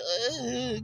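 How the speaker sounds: high-pitched imitated whimper; mock pained crying. Mocking the women crying in the videos, high pained whine. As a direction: fake a drawn-out pained moan. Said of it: "like they really in pain and shit".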